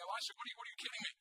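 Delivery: mock incredulous servant, pitch lifting on the question; eye-rolling disbelief. Young servant to Elisha while surrounded, mildly incredulous. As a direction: lightly act out an exasperated complaint. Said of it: "kind of rolling his eyes".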